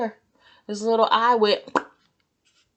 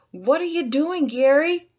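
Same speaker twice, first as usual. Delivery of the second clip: higher, louder call; shouted; 8 semitones higher, 5 dB louder than usual. Acted. SpongeBob yelling at Gary at the gate, high shout. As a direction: yell at your stalled snail. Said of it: "shouted SpongeBob".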